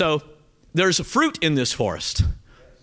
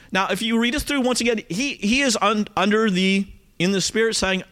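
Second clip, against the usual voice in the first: ordinary talk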